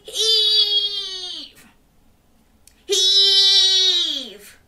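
loud, high straining call; effortful heave. A narrator's reading. Everyone pulling the turnip together, straining shout. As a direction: pull hard and shout it.

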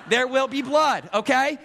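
mock horror-movie threat; mock menace. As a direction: play the crazed dad for laughs. Joking about chasing kids with knife.

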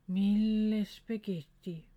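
very slow, sleepy mumble; mumbled in sleep. Acted. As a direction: drag it out half asleep. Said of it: "mumlede han i søvne". (mumlet meget langsomt i søvne)

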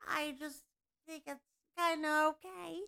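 inhaled ditzy-blonde voice; playful alter ego, unlike your own voice; put-on character voice. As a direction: play a dumb blonde, air sucked in. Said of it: "I could talk like this".

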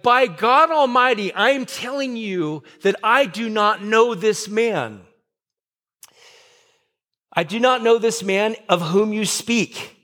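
insistent acted denial under oath; emphatic sworn denial. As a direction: swear it solemnly, stressing each word. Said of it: "bring down a curse on himself".

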